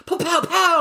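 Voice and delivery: high, loud mock yell of a TV lawyer. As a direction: shout it like a cheesy ad lawyer. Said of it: "and he's just yelling".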